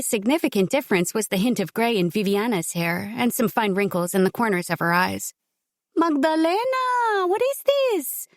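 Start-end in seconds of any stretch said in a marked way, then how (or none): 6.0-8.3 high, slow and anxious mother; worried. Acted. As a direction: fret over her hurt daughter. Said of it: "worry in her voice".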